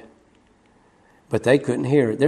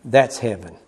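low, soft "that's heaven"; quiet declaration; 5 semitones lower, 5 dB quieter than usual. Real, not acted. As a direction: settle it down gently. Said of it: "repeated softer".

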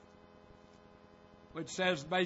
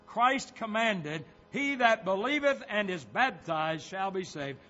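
forceful pulpit reading with punched key words; insistent sermon delivery; emphatic preaching; 3 semitones higher, 4 dB louder than usual. Real, not acted. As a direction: press each point on the congregation. Preaches from quoted booklet.

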